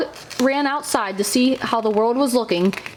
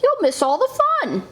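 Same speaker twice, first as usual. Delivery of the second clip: higher, coaxing frog; pleading Frog; 9 semitones higher than usual. A narrator's reading. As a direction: tempt a sleepy friend with fun.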